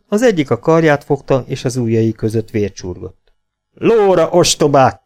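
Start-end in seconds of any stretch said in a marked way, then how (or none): 3.7-5.0 high, urgent command; raised, scolding cry; shouted order. A narrator's reading. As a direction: shout them into the saddle. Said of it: "kiáltotta".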